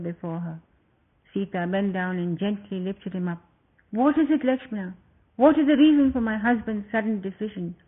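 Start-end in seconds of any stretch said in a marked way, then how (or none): 3.9-7.8 put-on a young queen teasing then worrying; Sita's voice. Sita asks the reason.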